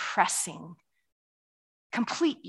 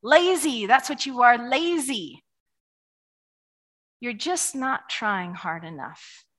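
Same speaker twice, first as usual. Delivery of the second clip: Pharaoh voice. Retold or imitated. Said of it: "Pharaoh says it again".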